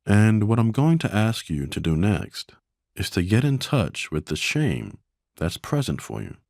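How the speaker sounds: gentle, measured guidance with long silences between phrases; guided meditation. Acted. Meditation teacher guiding listeners to observe their shame, gentle and calm. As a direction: calmly invite them to notice, leaving space.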